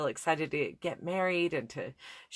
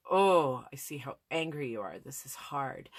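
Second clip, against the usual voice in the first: empathetic reflecting; 2 semitones lower than usual. Shown as a demonstration. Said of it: "to reflect that back".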